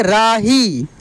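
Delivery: राही joined, with a long final ī; drawn-out long ī. Shown as a demonstration. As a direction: blend राही and stretch the ending. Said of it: "खींच कर किया जाता है". (राही की ई लंबी)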